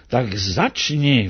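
put-on teacher ordering the boy to begin, sternly. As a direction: bark the start like a strict piano teacher. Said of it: "vykřikl přísně učitel".

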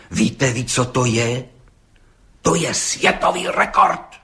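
rising, slow and emphatic on the record; blurted excitedly. A narrator's reading. Policeman Hejda tells the judge, blurting excitedly. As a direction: burst out with it, worked up. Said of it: "vyhrkl rozčileně".

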